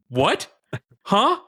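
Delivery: high-pitched, incredulous retold reaction; baffled double-take. Boyfriend reacting to what he misheard, baffled. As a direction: act out a stunned double-take.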